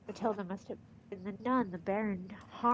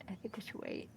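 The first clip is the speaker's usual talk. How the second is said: whispering; 2 semitones lower, 13 dB quieter, faster than usual. Real, not acted. Hiding, afraid to be heard.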